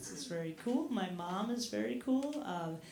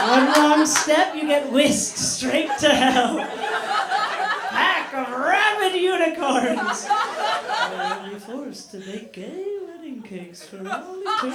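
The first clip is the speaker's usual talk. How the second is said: excited rant; 4 semitones higher, 11 dB louder than usual. Acted. Comic hell rant about homophobes.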